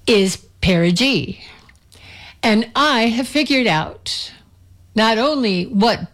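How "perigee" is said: "perigee" with a soft G, like "jee"; soft-G pronunciation. Shown as a demonstration. Host teaching listeners the word, "perigee" with a soft G. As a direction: say "perigee" to sound like "pair-a-jee". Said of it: "pronunciation for perigee".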